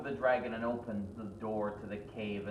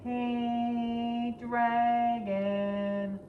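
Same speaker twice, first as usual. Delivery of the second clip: high, slightly louder call; calling the dragon a bit louder; 12 semitones higher, 3 dB louder, much slower than usual. Acted. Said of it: "called a little bit louder".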